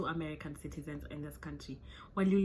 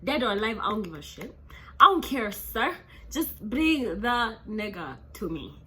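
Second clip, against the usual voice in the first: government demanding; 3 semitones higher, 6 dB louder than usual. Retold or imitated. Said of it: "They're like".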